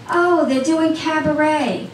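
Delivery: high, slow, drawn-out gush; imitating a friend's delighted announcement; excited news. Friend telling her about the cabaret, excited and slow.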